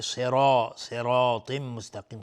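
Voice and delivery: "صراط" slow, with thick s and r; heavy emphatic sounds. Shown as a demonstration. Teacher shows heavy letters, "صراط" slow and thick.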